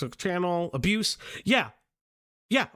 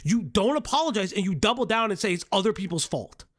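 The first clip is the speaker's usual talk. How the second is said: swearing tirade; 3 semitones higher than usual. Real, not acted. Swearing rant at the document.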